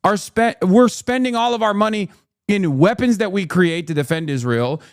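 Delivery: usual speaking voice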